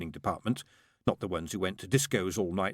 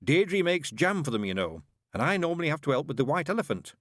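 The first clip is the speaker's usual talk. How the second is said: weary father; 6 semitones higher than usual. A narrator's reading. Narrator voices Mister Young.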